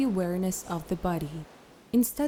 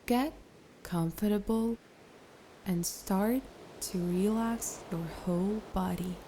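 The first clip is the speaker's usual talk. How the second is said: guided meditation; 5 dB quieter than usual. Acted. Meditation teacher settling the listener into a comfortable seat, calm guided meditation. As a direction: ease them into stillness with long pauses.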